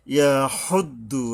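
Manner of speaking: হদ্দু with a hard throat ha; strong throat ha; throaty long ha. Shown as a demonstration. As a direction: press the হ from the throat. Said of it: "গলায় শোষ ভাব আসবে শক্তভাবে".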